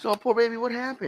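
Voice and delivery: put-on Russian accent. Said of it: "Really thick Russian accent".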